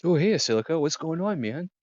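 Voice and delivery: high laid-back stoner voice; Theo greeting. Acted. GM voicing Theo greeting Silica, high and laid-back. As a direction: greet your buddy high and easy. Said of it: "you hear him say".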